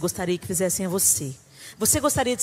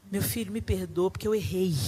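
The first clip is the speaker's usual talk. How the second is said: tender apology; 3 semitones lower, 4 dB quieter than usual. Retold or imitated. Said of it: "digno de uma mãe dizer".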